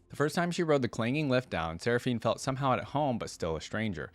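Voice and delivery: measured read-aloud storytelling voice; story narration. A narrator's reading. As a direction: read it out like a written biography. Reads champion biography aloud.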